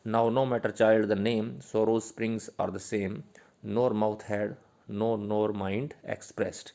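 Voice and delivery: very slow, drawn-out reading of verse lines; poem recital. Shown as a demonstration. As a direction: let each line of the poem linger.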